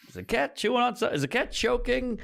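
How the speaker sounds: high, fast panicked worry; freaking out. Retold or imitated. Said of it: "I freak out a little bit".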